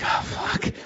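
breathless whispered curse under the breath. Retold or imitated. Spotting his ex-wife at the airport, a whispered curse. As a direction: mutter it to yourself in dread, barely voiced. Hears his name called.

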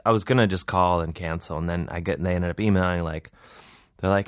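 ordinary talk, nothing marked

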